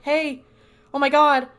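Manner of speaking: a hammed-up shocked cry; mock alarmed cry. Dean seeing a ghost drain a woman, mock alarmed cry.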